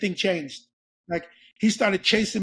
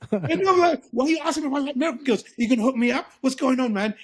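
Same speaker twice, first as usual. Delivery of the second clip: excited; 3 semitones higher, faster than usual. Retold or imitated. Excitedly asking about American girls.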